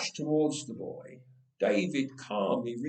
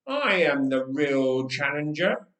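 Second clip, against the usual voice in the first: David's deep voice; 4 dB louder than usual. Acted. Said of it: "in that deep voice he had used before the king".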